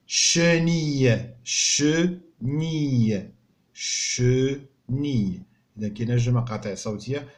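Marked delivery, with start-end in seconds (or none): 0.1-5.5 teacher prompting pupils; slow model word. Shown as a demonstration. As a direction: drag شنيه out for the class. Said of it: "اش كنسميوها".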